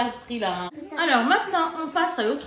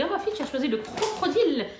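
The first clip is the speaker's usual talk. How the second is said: laughing; 4 semitones higher than usual. Retold or imitated. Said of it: "je rigolais avec elle".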